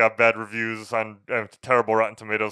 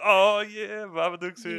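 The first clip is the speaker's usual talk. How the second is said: mock delight; 11 semitones higher, slower than usual. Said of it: "I'll be like".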